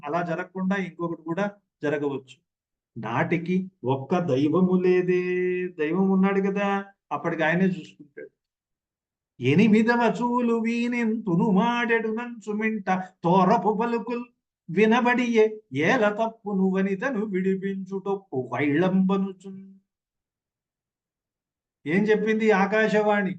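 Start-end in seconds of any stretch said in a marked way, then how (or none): 3.0-5.7 slow, drawn-out recital of the verse; slow padyam chanting; slow poem recitation. Acted. 9.4-19.7 sing-song classical padyam delivery; poem recitation. Acted.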